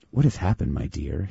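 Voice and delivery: lightly voiced posh Oxford English gentleman; a hint of an Oxford English accent; posh Oxonian accent. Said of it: "in his perfectly posh Oxonian accent".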